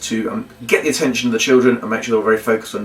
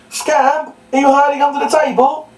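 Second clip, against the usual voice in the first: muffled through hands; 13 semitones higher than usual. Shown as a demonstration. Children's entertainer calls for the hidden puppet dog, high and muffled. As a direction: call out as if through a table, hands over mouth. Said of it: "I'll show you what to do".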